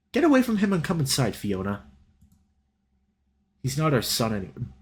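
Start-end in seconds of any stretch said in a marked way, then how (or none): 0.1-1.8 raised, higher commanding call; father barking an order; stern order. Acted. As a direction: order them inside sharply. Father ordering son's friend inside.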